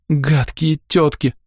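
put-on high, slow whiny girl voice; a little girl whining through tears; girl whimpering at the women; whimpering child. A narrator's reading. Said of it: "хныкала девчонка".

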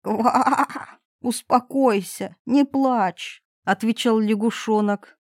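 a hint of a coaxing frog. Frog comforting the crying princess, gently.

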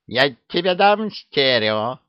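a witch scolding while swatting with her broom; mock-stern witch voice; Yaga snapping. Yaga swats the dragon with broom.

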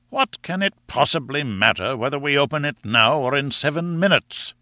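a touch of scornful impatience in the professor's voice; testy professor. Acted. Professor objects to waiting seven minutes, mildly testy.

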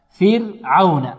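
فرعون drawn out slowly with a light r. Shown as a demonstration. Teacher models the word for students, light ra. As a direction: say فرعون very slowly, thin tapped ر after fi. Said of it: "ينبغي أن ترقق الراء".

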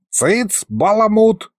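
high-pitched scolding hush; shushing. A narrator's reading. Sorcerer silences his chattering pupil, shushing. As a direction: cut the chatterbox off. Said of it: "шикнул Мировид".

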